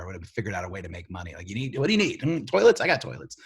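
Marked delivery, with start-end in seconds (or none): 1.5-3.4 pretend war profiteer. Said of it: "a war profiteer".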